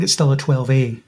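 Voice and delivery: "A" given extra weight after "twelve"; stress on A. Real, not acted. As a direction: lean on the final letter "A". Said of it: "Emphasis on the A".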